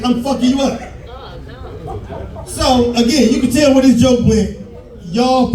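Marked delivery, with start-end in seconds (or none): 0.0-0.8 mock dad threat. Protective dad threatening boy.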